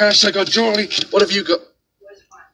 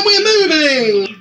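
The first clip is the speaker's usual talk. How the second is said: crying; 3 semitones higher, slower than usual. Acted. Announcing move tearfully.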